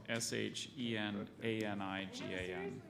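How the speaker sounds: steady letter-by-letter spelling. Real, not acted. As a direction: read each letter clearly. Pronouncer spells the word out.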